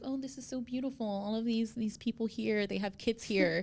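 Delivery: light, quick gushing over the play; a hint of a delighted headmaster.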